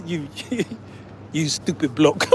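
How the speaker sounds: soft, lightly posh British put-down; a hint of a Londoner scoffing; mock British insult. A Londoner calls the vlogger a bloke, mock British. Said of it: "He like".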